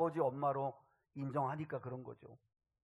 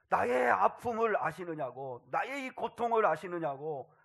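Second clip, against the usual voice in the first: raised, emphatic lament; acted outpouring; 4 semitones higher, 5 dB louder than usual. David pours out his pain before God, emphatic pleading lament. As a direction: cry out a mild protest, drawing out the opening. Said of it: "얼마나 다 쏟아놓아요".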